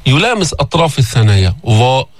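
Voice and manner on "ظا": ظا said heavy and slow at the teeth; drawn-out emphatic ظا; ẓāʾ. Shown as a demonstration. Teacher naming ظ as dental, slow. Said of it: "ظا حرف لثوي".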